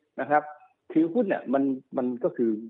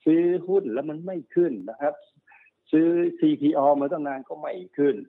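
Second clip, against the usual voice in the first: higher-pitched mock grumbling, listing each grievance; mildly frustrated speculator; 4 semitones higher than usual. Speculator complaining that stocks bought won't rise, mildly frustrated. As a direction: imitate a trader's mild exasperation. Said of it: "นักเก็งกำไรเนี่ยนะ หงุดหงิดนะ".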